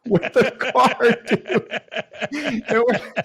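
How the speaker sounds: cracking up mid-sentence; high, giggling disbelief; laughing. Real, not acted. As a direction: laugh through the punchline. Punchline of the stolen car.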